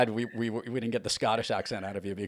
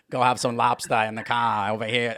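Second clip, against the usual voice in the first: harsh mock Boston, R-less lobster and car; Boston accent; 6 dB louder than usual. Shown as a demonstration. Host showing how the Cape sounds, Boston accent. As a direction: drop the R's in a Boston accent. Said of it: "the Boston accent".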